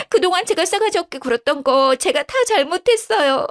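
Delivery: a caught liar begging sweetly; wife pleading with her husband. Acted. Wife begs husband and in-laws.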